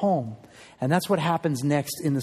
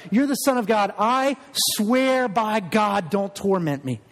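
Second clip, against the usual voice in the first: pleading cry; 2 semitones higher than usual. Pretend. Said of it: "you cry out".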